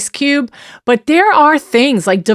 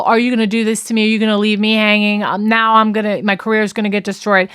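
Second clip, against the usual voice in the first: rapid-fire imitation of guilt-tripping; mock guilt trip; faster than usual. Abuser working on his victim, quick guilt-tripping. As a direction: rattle off his reproaches quickly. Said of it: "guilt trip that you give somebody".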